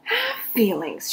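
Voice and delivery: high, slow indignant cry; indignant shout. Acted. Eugenia shouting back at Baby, high and indignant. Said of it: "shouted Eugenia".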